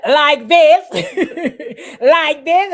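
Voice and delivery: high laughing retort; laughing mock reply; laughing quote. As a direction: giggle through it, mocking. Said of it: "She said".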